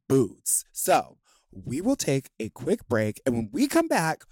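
upbeat podcast host read. Acted. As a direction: announce it like a show host.

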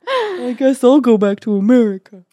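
high, loud mock sulk; mock sulking actor. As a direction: sulk off in jest. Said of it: "They're like".

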